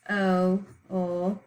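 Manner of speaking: "F-o-o-k" in isolated sounds with gaps; think-to-spell pronunciation. Shown as a demonstration. Teacher showing the written word, sound by sound. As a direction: pronounce "F-o-o-k" as f, oh, ull, k. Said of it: "we're going to think to spell".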